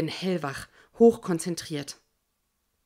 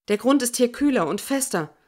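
louder, higher call over the noise; breathless call; 5 semitones higher, 4 dB louder than usual. Acted. Pilot calling to Jorge over the noise, breathless shout. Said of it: "rufe ich atemlos in den Lärm hinein".

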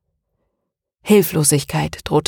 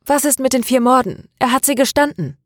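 upset protest; 8 semitones higher than usual. Acted. Maria objects in shock.

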